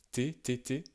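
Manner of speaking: T, T, T said crisp and unaspirated like a French T; French-style T. Shown as a demonstration. Teacher demonstrating the French-like T to learners, crisp and unaspirated. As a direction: tap out T, T, T the French way. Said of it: "On peut dire un T quasiment français".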